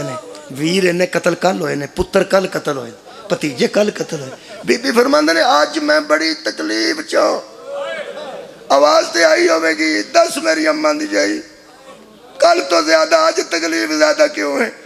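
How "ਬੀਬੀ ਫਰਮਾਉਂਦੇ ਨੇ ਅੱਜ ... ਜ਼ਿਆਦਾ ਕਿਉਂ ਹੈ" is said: raised, plaintive majlis cry; lamenting preacher. Acted. Brother asking, sister answering about her suffering, lamenting. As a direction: draw out the dialogue like a dirge.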